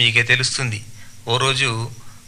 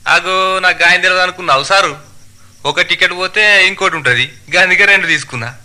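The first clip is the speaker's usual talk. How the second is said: higher, animated dialect voice; cocky passenger; 5 semitones higher, 4 dB louder than usual. Acted. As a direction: justify yourself smugly to the conductor. (అతి తెలివి ప్రయాణికుడు, యాసలో)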